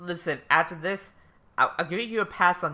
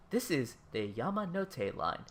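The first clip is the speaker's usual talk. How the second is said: a slow, measured mock station announcer; train announcement; 3 dB louder than usual. Imitating the Tokyo Yamanote line announcement, slow. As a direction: read it like a recorded platform message. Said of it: "they really do capture".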